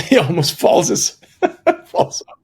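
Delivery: laughing through the words; high laughing retelling. Real, not acted. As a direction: crack up while telling it. Laughing at the memory.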